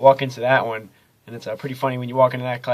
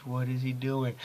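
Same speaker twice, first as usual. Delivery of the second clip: whisper; 9 dB quieter, slower than usual. Retold or imitated. Classmates staring at orange suit.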